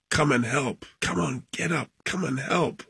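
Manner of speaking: high-pitched urgent call, held back in volume; retold scream for help. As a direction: re-enact yelling at people to come and help. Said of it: "I was screaming my head off".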